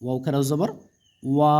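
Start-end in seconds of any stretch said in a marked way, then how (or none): 1.2-1.6 long, steadily held vowel; drawn-out vowel. Shown as a demonstration. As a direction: stretch the vowel out evenly. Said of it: "টেনে পড়তে হয়". (টেনে পড়া, লম্বা স্বর)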